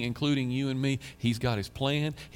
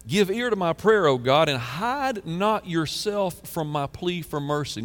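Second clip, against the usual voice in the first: fervent plea; 4 semitones higher, 3 dB louder, slower than usual. Acted. Reading psalm plea.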